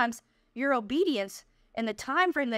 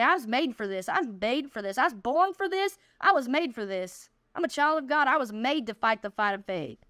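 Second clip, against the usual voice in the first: bold, rising declaration of faith; declaring faith. Shown as a demonstration. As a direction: proclaim it like a battle cry. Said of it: "Each piece of dirt, say".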